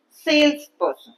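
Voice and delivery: Salesperson, SALES slow and leaned on, person light; stress on sales. Shown as a demonstration. Teacher modelling salesperson for the class, slow with SALES stressed. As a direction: stretch out Salesperson and lean on the SALES. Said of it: "Sales part has more stress".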